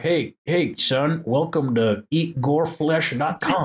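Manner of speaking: slow, lightly voiced friendly dad; mock fatherly welcome. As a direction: drawl a cheesy welcome to the site. Mock fatherly welcome to gore site.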